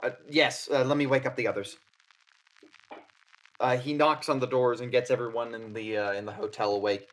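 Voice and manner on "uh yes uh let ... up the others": fast, louder, hurried Odette. Acted. Odette agreeing to wake the others, fast and hurried. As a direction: rush off to wake everyone.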